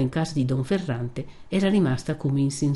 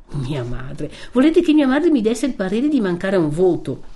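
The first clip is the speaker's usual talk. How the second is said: louder, incredulous retort; indignant Renzo; 2 semitones higher, 4 dB louder than usual. Acted. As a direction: throw her words back at her. (Renzo indignato, incredulo)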